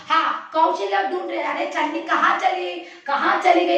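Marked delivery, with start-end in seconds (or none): 1.4-3.8 mother calling high, searching. Acted. Mother pretending to hunt for her hiding daughter, calling. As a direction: call for the child as if she's gone missing. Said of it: "ऐसे ढूंढ रही".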